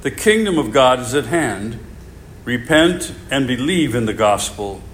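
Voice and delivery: solemn liturgical reading voice; gospel reading. Acted. Reads the gospel at Mass.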